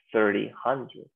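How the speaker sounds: "thirty, hundred" in two separate pieces; teacher demonstrating "thirty" then "hundred"; pronunciation demo. Shown as a demonstration. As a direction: model "thirty, hundred" for learners, a small break between the words. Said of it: "Se pronuncia".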